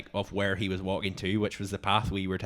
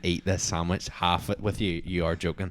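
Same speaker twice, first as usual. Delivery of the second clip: retold indignation; 8 dB louder than usual. Retelling an argument with partner over a sandwich, indignant. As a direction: refuse hotly, hitting the price hard.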